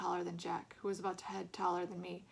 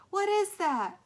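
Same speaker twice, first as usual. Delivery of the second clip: shocked shout; 12 semitones higher, 11 dB louder, much slower than usual. A narrator's reading. Kid sees the face.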